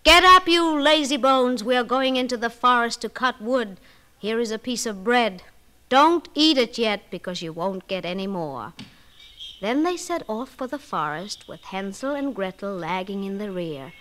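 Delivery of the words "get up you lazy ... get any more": loud, harsh wake-up call; shouting stepmother. Acted. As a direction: bark at the children. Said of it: "the stepmother shouted to the children".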